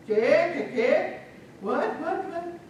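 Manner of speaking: high, loud repeated questions; bewildered questioning. Acted. Father to babbling children, bewildered questioning. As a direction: ask in acted bewilderment, pitch jumping.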